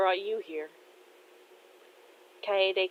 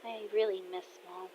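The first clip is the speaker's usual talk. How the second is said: softly, tenderly voiced longing; quiet confession; 11 dB quieter than usual. Daughter telling dad she misses mom, quietly. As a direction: admit it very softly. Daughter admits missing her mother.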